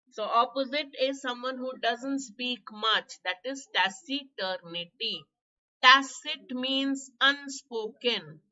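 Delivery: hoarse, strained teacher's voice. Real, not acted. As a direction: talk through a hoarse throat. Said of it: "this horrible hoarse voice".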